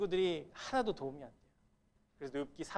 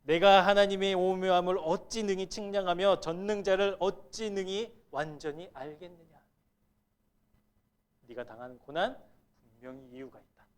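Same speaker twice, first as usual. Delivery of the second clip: lecturing friend; 6 dB louder than usual. Retold or imitated. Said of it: "소발은 뭐라고 얘기하고 있냐면".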